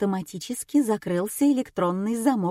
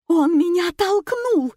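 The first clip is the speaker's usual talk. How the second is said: much higher, louder, dragged-out scream; screaming accusation; 11 semitones higher, 6 dB louder than usual. A narrator's reading. Nina screaming at Gena who pushed her, full shriek. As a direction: shriek it at the top of your voice. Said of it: "заорала Нина".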